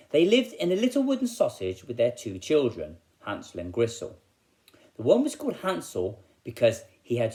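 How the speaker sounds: put-on lively storytelling voice for children; story narration. A narrator's reading. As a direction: read it like a fun school assembly story. Teacher reads story to children.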